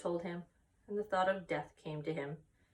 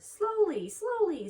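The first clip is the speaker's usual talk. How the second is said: much higher, louder sing-song call; 14 semitones higher, 8 dB louder, slower than usual. Acted. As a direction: call him back to slow down. Charlotte calls Wilbur back.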